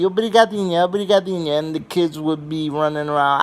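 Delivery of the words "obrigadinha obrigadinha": high, sweet phone voice; talking all cutesy. Retold or imitated. Grandmother cooing sweetly to a Portuguese friend on the phone. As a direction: coo it sweetly like a polite lady. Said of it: "talking all cutesy".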